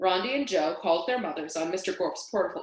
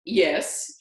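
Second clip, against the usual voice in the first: pleasant Scottish; 5 dB louder than usual. Acted. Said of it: "pleasant voice he took from the Scottish gentleman".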